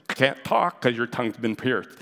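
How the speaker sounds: New Yorker with a pierced tongue; mock New Yorker accent. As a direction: put on a tongue-tied New York accent. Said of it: "a New Yorker with that New Yorker accent".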